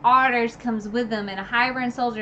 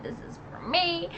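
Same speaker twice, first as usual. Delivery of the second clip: avenging Farah; 8 semitones higher than usual. Retold or imitated. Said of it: "she was like".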